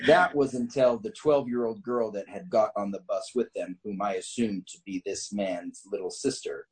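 measured, deliberate story reading; story narration. A narrator's reading. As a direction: read the tale out with emphatic phrasing. Reads a written story aloud.

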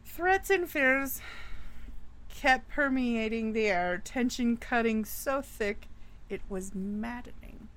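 storyteller voice, dramatic and measured; spooky story narration. A narrator's reading. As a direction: tell it like a campfire ghost story.

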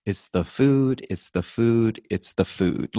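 lightly imitated insistent doctor; mild impression of an emphatic expert; Michael Clapper. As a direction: repeat it like a mantra, stepping down each time. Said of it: "you'll see Doctor Michael Clapper say".

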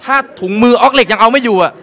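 stand-up indignation; mock outrage. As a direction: rant at the absurdity. Comic outrage at hot stones.

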